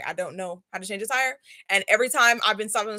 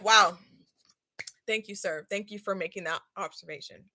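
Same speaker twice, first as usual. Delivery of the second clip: softer, dry sarcastic thank-you; 2 semitones lower, 5 dB quieter than usual. Retold or imitated. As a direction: thank him as if he said the obvious. Sarcastic reply to the mechanic.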